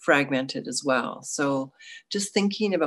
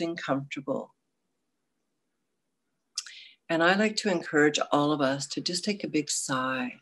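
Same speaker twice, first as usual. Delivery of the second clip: guided meditation. Acted.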